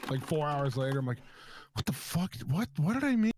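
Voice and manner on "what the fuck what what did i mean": high, louder puzzled outburst; mock shocked disbelief; retold confusion. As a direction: act baffled at your own text.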